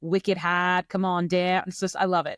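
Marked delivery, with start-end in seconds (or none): 0.0-0.9 slow, stretched mock-Boston accent; amateur Boston impersonation. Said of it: "my Boston accent". 0.9-1.7 put-on botched Boston accent turning Australian; wobbly mock Boston-Australian accent; Boston accent slipping Australian. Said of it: "I got real Australian there at the end".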